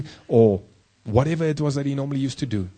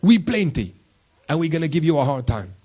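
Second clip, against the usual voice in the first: higher, swaggering demon taunt; a lightly voiced demon sizing Jesus up; 4 semitones higher than usual. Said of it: "This demon is telling Jesus".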